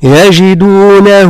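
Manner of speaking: يجدونه slow, final ha drawn into a long vowel; lengthened ha. Shown as a demonstration. Teacher showing the lengthened pronoun ha. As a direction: stretch the ha of يجدونه. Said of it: "هكذا".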